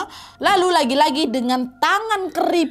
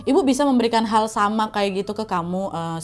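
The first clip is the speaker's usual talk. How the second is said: sinister mother; 3 semitones lower than usual. Acted. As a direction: tempt a son with a dark bargain. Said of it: "Nah, mamanya bilang".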